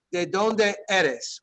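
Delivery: ¿De dónde eres? said very slowly, each syllable clear; slow demo. Shown as a demonstration. Teacher modelling the Spanish question slowly for the class. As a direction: spell it out slowly for learners. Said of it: "Like, for example".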